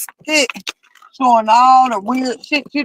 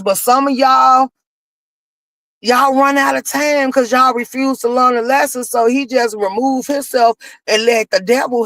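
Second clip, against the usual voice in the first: preaching. Acted. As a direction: preach it to the congregation. Slips into preaching about God.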